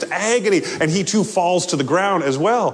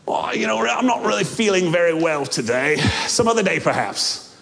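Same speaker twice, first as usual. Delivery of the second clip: a hint of a sick man begging off; whiny excuse. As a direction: ghost ducking the angel. Ghost making excuses.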